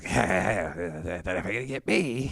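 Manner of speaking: put-on lightly done old western outlaw drawl; a hint of a grizzled train robber; low mock outlaw mumble. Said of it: "He literally sounded like the train robber".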